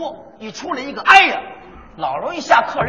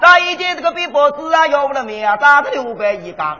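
put-on Shanghai-accented hawking. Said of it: "那要用上海话就是".

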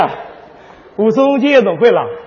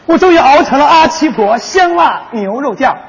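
loud proud commercial payoff; triumphant ad shout; 4 dB louder than usual. Pretend. Partner shouts the sauce ad's triumphant tagline. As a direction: shout the brand like a finale. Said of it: "你这广告插的也太多点儿了".

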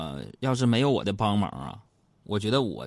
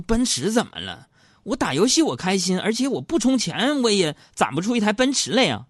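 raised, defensive retort; arguing back; 11 semitones higher, 4 dB louder than usual. Retold or imitated. Husband defending his gaming spending to his wife, raised and defensive. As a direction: argue back a bit heated. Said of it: "我就争辩".

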